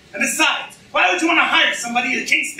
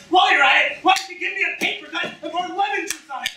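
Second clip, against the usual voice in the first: bitter sarcastic rant; 3 semitones higher, faster than usual. Acted.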